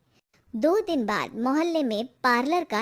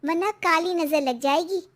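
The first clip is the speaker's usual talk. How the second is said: higher-pitched wife passing on a warning; worried young wife; 5 semitones higher than usual. Acted. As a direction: voice the wife, higher than the narration. Story figure's warning.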